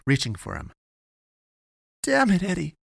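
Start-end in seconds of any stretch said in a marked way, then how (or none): 2.0-2.8 swearing under breath. Acted. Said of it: "she swore under her breath".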